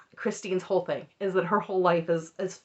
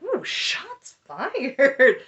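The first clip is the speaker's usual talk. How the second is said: very slow, drawn-out, higher "ooh"; teasing shots fired; 7 semitones higher, 4 dB louder, much slower than usual. Retold or imitated. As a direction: savor the drama like gossip. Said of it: "And I was like".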